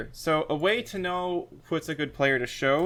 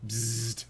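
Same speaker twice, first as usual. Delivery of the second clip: bug zapper zap; 2 semitones lower, 3 dB quieter than usual. Shown as a demonstration. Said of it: "classic non-verbal".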